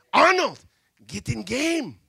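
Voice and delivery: loud sudden call to the bench; coach calling out. Retold or imitated. Coach calls the boy off the bench, loud. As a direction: yell the player's name into the game.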